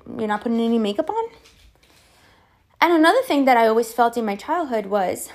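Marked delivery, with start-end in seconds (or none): 0.1-1.3 mom's critical remark. Retold or imitated. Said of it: "She would say something like".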